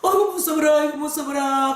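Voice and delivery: scared granny wail; trembling with fear. Retold or imitated. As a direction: quaver like a terrified old woman. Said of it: "할머니가 무섭다고 바바바바바바 떨더라고".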